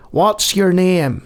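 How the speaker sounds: put-on slow, half-hearted Irish accent; attempted Irish accent. Burly Irishman asking a newcomer's name, in an attempted Irish accent. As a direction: have a poor go at an Irish accent. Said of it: "I can't do an Irish accent".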